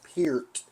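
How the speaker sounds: Peart said like "peer" plus a T; correct pronunciation of Peart. Shown as a demonstration. Fan teaches drummer's name, Peart with an EE sound. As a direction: say Peart to rhyme with "pierced" minus the S. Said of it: "and correct pronunciation".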